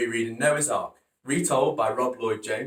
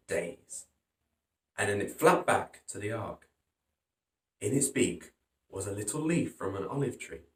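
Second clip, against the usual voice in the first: put-on lively read-aloud for kids; storybook reading; 2 semitones lower than usual. A narrator's reading. Teacher reading Noah's Ark to pupils, lively storytelling. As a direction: tell it like a children's story. Reading picture book to children.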